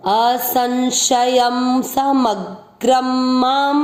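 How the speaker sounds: slow, stretched recitation of असंशयम समग्रम माम. Shown as a demonstration. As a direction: chant each word slowly. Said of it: "तीसरा चरण वापस".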